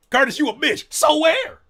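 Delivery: high, loud mocking replay; acting out insult and weak reply; mock comeback. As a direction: mimic the exchange up high.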